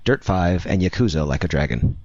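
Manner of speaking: measured news-article reading; article read-aloud. Real, not acted. Co-host reading a Kotaku article to listeners, presenter-style read.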